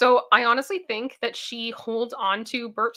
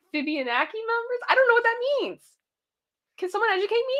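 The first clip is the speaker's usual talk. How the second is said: puzzled; 12 semitones higher, faster than usual. Real, not acted. Confused by member note.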